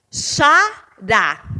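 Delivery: "Xará" in two loud, separated syllables, landing on "rá"; stressed last syllable. Shown as a demonstration. Teacher showing pupils where the accent falls, syllable-by-syllable "Xará". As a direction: break up "Xará" and press on "rá". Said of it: "está na última sílaba".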